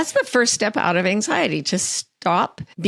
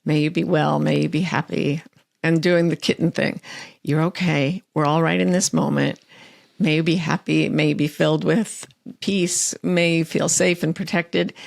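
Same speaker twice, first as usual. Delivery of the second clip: loving kindness phrases. Retold or imitated. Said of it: "I just started saying".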